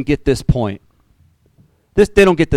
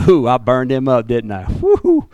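mock gloating. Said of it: "He doesn't sit back and say".

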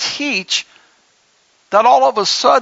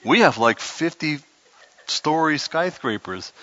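mock incredulous viewer; 5 semitones lower, 4 dB quieter than usual. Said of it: "Anybody watching's like".

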